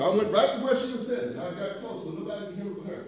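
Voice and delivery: quiet aside as if not to be overheard; hushed retelling. Retold or imitated. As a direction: lean in and say it softly. Telling quietly up close.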